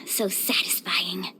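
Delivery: a whispered sigh of pure food bliss; satisfied whisper. Real, not acted. Savoring a seafood tray, she murmurs in a contented whisper.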